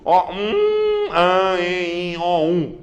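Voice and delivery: um, an, en sounded through the nose; nasal vowel demo. Shown as a demonstration. Teacher to class, sounding nasal vowels. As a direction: hum each vowel nasally. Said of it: "projetado pela cavidade nasal".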